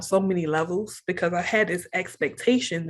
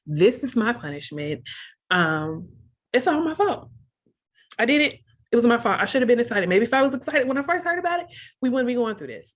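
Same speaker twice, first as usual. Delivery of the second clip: higher-pitched, re-enacted self-reproach; retold self-blame; 5 semitones higher than usual. Wife confessing blame to her husband, retold self-blame. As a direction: replay the guilty outpouring in a raised voice.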